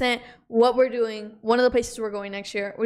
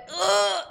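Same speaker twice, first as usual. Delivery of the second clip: high-pitched mock cringing groan; awkward-slang groan; 7 semitones higher than usual. Imitating how unfamiliar slang lands, high cringing groan. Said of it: "it just sounds like".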